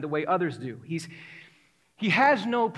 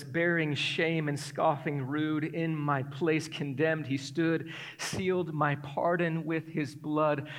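hymn recitation; 2 semitones lower, slower than usual. Acted.

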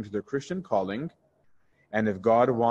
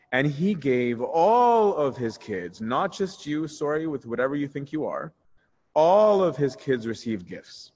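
higher-pitched, drawn-out stress on "all"; emphatic retold correction; 3 semitones higher than usual. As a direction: act out a mentor hammering the point home, slowly. Mentor's rebuke acted in retelling.

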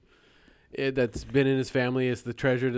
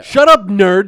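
loud, higher taunt of shut up nerd; hammed-up sneering insult; mock put-down; 5 semitones higher, 12 dB louder, slower than usual. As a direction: bark it like a TV bully. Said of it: "his response is basically the line".

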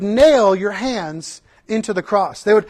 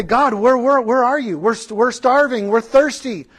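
grumbling Israelites; 5 semitones higher, 4 dB louder than usual. Retold or imitated. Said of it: "started to grumble against God and say".

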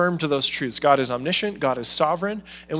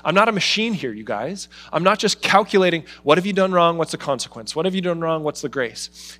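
emphatic God voice; 3 semitones higher, 4 dB louder than usual. Retold or imitated. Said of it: "the peek behind the curtain where he's saying".

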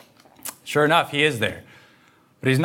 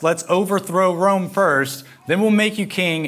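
higher, pushing excited pitch; eager crowd urging; 7 semitones higher than usual. Retold or imitated. Follower urging Jesus to overthrow Rome, rising excited voice. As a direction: rise up eagerly as if rallying him on. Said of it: "And you're like".

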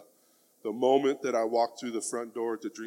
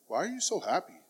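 curious boss; 7 semitones higher than usual. Retold or imitated. Boss quizzing a cheerful employee, high-pitched and curious. Boss asks about his mood at work.

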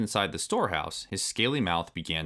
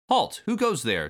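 high, loud alarmed shout; 10 semitones higher, 5 dB louder than usual. A narrator's reading. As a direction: call out sharply into the dark. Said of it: "Diddy shouted".

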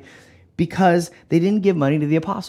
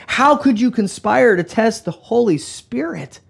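higher, heated accusation; going off on someone; 5 semitones higher than usual. Acted. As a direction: act out an indignant rebuke. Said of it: "When he goes off on him".

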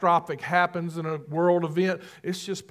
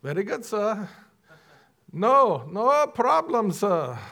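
polite yes-man; 4 semitones higher than usual. Retold or imitated. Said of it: "In those parts of the world, yes".

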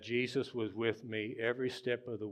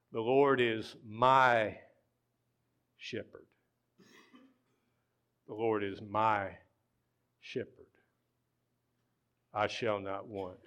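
slow Psalm reading. Real, not acted. Pastor reading the Psalm to his congregation, slow and deliberate. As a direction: read slowly with long pauses. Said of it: "We're just gonna read it slow".

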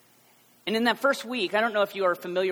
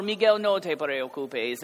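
slow reassurance; 6 dB louder, slower than usual. Retold or imitated. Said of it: "I said it in a way".

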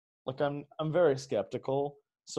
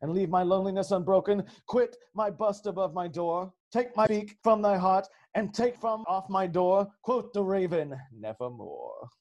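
dramatic recitation; 5 semitones higher than usual. Acted. Guest's parting words to listeners, a hammed-up poem recital. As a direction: declaim it like a hammy poet.

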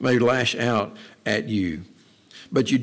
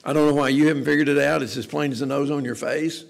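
arrogant; 3 semitones higher, 4 dB louder than usual. Acted. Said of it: "not an attitude of saying".

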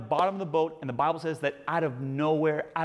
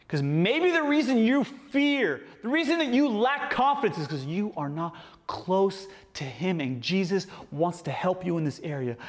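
fervent preaching. Acted. Preaching at full force.

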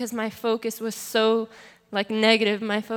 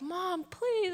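high-pitched imitated pleading; retold tearful plea; 9 semitones higher than usual. Daughter begging her mom to believe, retold tearful plea. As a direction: replay a tearful plea without real crying. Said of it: "I was, like, crying".

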